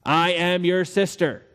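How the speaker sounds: slow, deliberate model line; feed the line slowly to be repeated; measured, rehearsed phrase; Abram coaching Sarah. Acted. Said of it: "Okay, repeat after me".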